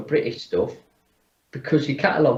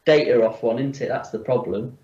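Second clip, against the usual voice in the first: echoey. Real, not acted. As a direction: voice in an echoey room. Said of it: "you sound a bit echoey".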